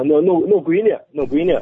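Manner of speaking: 那闺女 in Henan dialect. Shown as a demonstration. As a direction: demonstrate the local Henan word 那闺女. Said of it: "咱们河南把大姑娘的".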